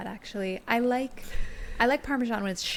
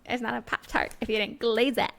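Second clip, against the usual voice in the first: snooty; 3 semitones higher than usual. Retold or imitated. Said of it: "Diane so rudely".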